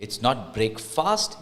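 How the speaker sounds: breakfast said slowly as brake-fast; wrong version, slowed. Shown as a demonstration. Teacher showing the mistaken breakfast.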